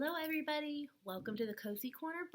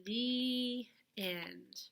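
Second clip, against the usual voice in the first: whispered ending. Acted. Closing the storybook.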